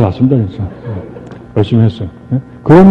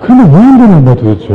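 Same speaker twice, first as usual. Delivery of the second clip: higher and louder, a frustrated cry to the room; exasperated near-shout, pitched high; exasperated outcry; 5 semitones higher, 5 dB louder than usual. Real, not acted. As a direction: let it burst out: why won't it work. Venting frustration at failure.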